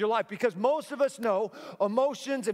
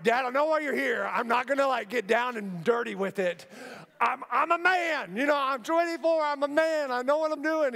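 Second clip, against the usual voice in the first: insistent son; 5 semitones higher than usual. Retold or imitated.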